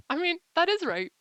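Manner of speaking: high, loud laughing burst. Real, not acted. Vlogger laughing through her own joke to viewers.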